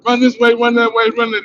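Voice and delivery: high shouted commands, run this way; police yelling orders. Retold or imitated. Cop yelling at the crowd to run, high shout. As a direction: bark out the orders like a cop on foot.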